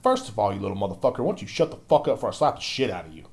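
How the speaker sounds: ordinary talk, nothing marked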